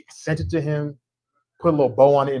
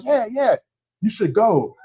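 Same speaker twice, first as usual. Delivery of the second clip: blunt; 8 semitones higher than usual. Retold or imitated. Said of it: "very blunt".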